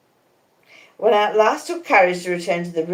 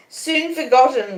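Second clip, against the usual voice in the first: higher, slow moan; 8 semitones higher than usual. A narrator's reading. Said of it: "moaned Miss Havisham".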